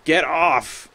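high, loud pushy "Get off"; mock snail voice. Gamer voicing the snail shoving him off, hammed-up high yell. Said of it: "the snails would come up and be like".

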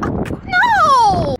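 high startled cry; sudden shocked exclamation; surprised. Real, not acted. Sudden alarm at the beach.

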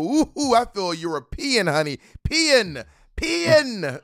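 high, haughty mock diva; snooty European lady. Wannabe European diva in a blonde wig, mock haughty and high. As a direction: lord it over the peasants in a fake high voice. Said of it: "long blonde wig and go".

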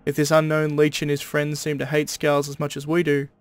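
steady Aussie twang, read like a stern proclamation; a guard leader's decree in an Australian accent. Acted. Guard founder warns his men against vampires, Australian accent. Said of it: "I made him more Australian than I am".

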